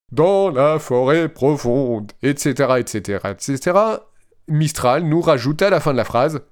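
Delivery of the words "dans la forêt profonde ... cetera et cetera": machine voice trailing into et cetera; robot voice. Retold or imitated. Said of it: "avec ma belle voix de robot".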